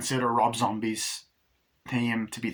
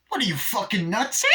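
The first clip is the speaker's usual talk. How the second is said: scoffing doll; 9 semitones higher than usual. Retold or imitated. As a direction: sneer it like she's crazy. Chucky mocks Tiffany.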